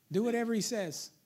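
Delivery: Mary in a lightly put-on accent; comic, lightly accented mother's order. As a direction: slip into a playful accent for Jesus' mother. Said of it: "she's got an accent today".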